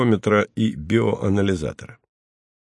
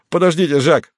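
higher, louder shout after him; Gorbovsky shouts to Jacques leaving; calling out; 8 semitones higher, 4 dB louder than usual. A narrator's reading. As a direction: call after him to stop. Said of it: "закричал он".

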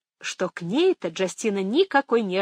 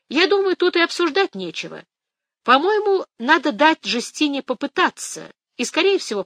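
put-on old grandmother voice; 8 semitones higher, 5 dB louder than usual.

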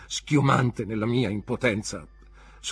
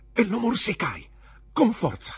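intense; 12 semitones higher, 5 dB louder than usual. A narrator's reading. Boy bites stepfather.

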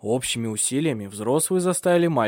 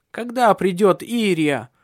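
put-on whiny, higher, slow little boy; capricious child; 7 semitones higher, 5 dB louder, slower than usual. A narrator's reading. Small boy asking for his nanny, capriciously. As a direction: drag out a sulky question. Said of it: "капризно спрашивал он".

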